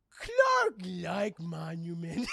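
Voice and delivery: slow, loud, dim-witted caveman voice; a confused brute talking about himself; derpy Superman. Acted. To the crowd, dazed Superman mumbles slow caveman words. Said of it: "Derpy Superman".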